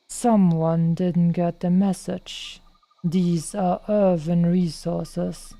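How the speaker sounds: lightly imitated monotone, slow; a hint of a bored quest-giver, slow; monotonous. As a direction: drone it out slowly, no life. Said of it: "that super monotonous thing".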